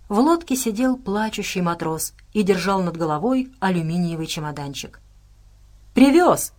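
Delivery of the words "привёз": higher, louder cry of delight; happy outburst, pitched up and punched out; joyful exclamation. A narrator's reading. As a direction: exclaim it with sudden joy. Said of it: "радостно воскликнул Тезука".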